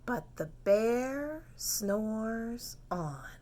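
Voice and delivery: slow, hushed whisper; whispered refrain. Shown as a demonstration. Reader whispers the refrain with the children. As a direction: breathe it slowly so the bear sleeps.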